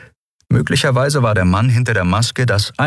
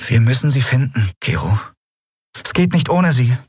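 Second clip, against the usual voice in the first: put-on higher young woman, pleading; a young captain pressing her friend; Endriel's voice; 7 semitones higher than usual. A narrator's reading. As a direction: lift into Endriel, urgent and insistent.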